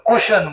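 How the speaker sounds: કુશન said as kushan, with no kw and no ch; foreign pronunciation. Retold or imitated. Teacher showing students how foreigners say question, as કુશન. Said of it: "એ લોકો ક્વેશ્ચન નો બોલે".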